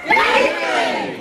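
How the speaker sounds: very high, slow, airy wail; spooky ghost greeting. Acted. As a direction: drag it out like a ghost. Second, spookier greeting take.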